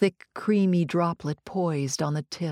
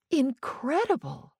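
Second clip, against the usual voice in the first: declaring; 7 semitones higher than usual. Acted. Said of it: "she declared".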